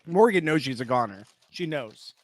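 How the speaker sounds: talking while chewing; words round a bite of food; mouth full. Real, not acted. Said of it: "I didn't mean to chew into the mic".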